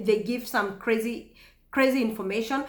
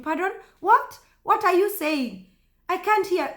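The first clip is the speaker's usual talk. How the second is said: higher and louder, straining to hear; confused loud asking; 7 semitones higher, 4 dB louder than usual. Retold or imitated. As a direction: call out over the noise, lost and confused. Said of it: "'cause I kept asking him".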